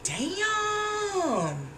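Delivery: high, soft, drawn-out damn; awed damn. Retold or imitated. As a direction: let it hang in disbelief. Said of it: "And I was like".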